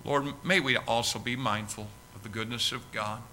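earnest pastor's prayer, slowing on key words; heartfelt closing prayer from the pulpit. Acted. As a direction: pray it tenderly to the congregation.

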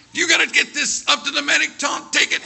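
high, loud panicked order; acted emergency command; frantic urgency. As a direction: push it out in a panic. Mike frantically orders Tom to medic.

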